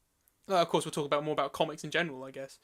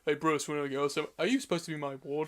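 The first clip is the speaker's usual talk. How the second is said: lightly voiced Robin, slightly lowered pitch; mock Robin; 3 semitones lower, 4 dB quieter than usual. Comic fan mocking the Arkham City Robin, lightly put-on voice. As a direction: lampoon the sidekick in a put-on voice. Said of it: "he's just like, he's just like".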